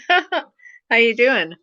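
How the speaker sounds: laugh, then force words through numb lips; numb from the dentist. Real, not acted. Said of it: "My mouth is frozen here and here".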